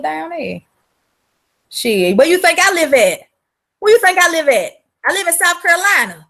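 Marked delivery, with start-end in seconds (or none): 1.7-3.2 louder, flat challenge; loud rhetorical question. Real, not acted. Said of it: "repeats question for emphasis". 3.8-4.7 louder and higher, pressing the point; loud, higher emphatic repeat. Real, not acted. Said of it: "repeats question higher".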